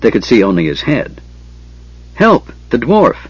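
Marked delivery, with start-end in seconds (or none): 2.1-3.2 high-pitched cry for help; narrator's contained shout; shouted alarm. A narrator's reading. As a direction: call out in alarm, voice jumping up. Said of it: "Tass shouted".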